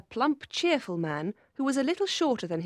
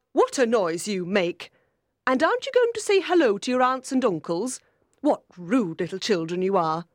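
loud, indignant aunt; stern character voice, raised; scolding aunt; 6 dB louder than usual. A narrator's reading. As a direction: tell off noisy children.

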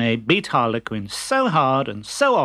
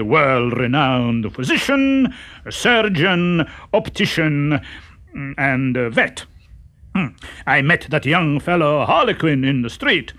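pompous fake doctor. Harlequin disguised as doctor.

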